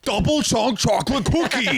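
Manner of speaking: high, slow, laughing meme voice; meme impression. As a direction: quote the meme like the kid. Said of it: "meme quote".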